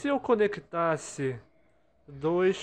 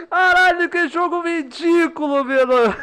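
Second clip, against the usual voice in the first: loud high furious rant; raging gamer; 12 semitones higher, 12 dB louder than usual. Real, not acted. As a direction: blow up at the stupid game. Rages at the game.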